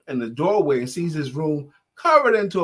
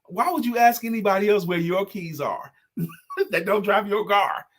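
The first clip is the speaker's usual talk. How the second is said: higher, mock exasperated mom; mother scolding; 4 semitones higher than usual. Mother scolding son about asking others, mock exasperated. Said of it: "You know".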